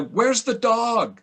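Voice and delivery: slow, drawn-out quoted line; a hint of acted script line; quoting his line. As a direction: say it slowly like reading a script. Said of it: "No, no, you're the".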